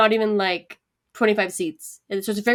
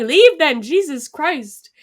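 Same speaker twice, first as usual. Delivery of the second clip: loud, higher, dragging out the end; fed-up outburst; 5 semitones higher, 6 dB louder, much slower than usual. Retold or imitated. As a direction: act out total exasperation with a heckler. Retells ordering man to leave.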